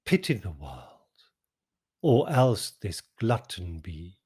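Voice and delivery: slow, measured sonnet recital; a poet reciting his sonnet; poem reading. Acted. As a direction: read it like verse, savouring each line. Reads the sonnet aloud.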